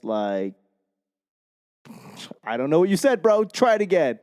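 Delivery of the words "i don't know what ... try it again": higher-pitched voice of a baffled app; mock the app giving up on you; dismissive app. Duolingo rejecting a learner's recording, mock bafflement.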